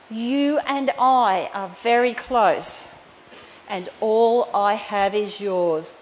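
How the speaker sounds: slow, gentle reassurance; tender. Retold or imitated. Father reassuring his jealous older son, slow and tender. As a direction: soothe him slowly, like a loving father. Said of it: "he said so tenderly".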